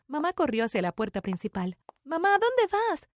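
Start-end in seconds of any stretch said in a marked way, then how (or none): 2.0-3.1 high, slow, frightened plea; scared call. Retold or imitated. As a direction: call after her, afraid she'll vanish. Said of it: "Tenía miedo de que volviera". (súplica asustada y lenta)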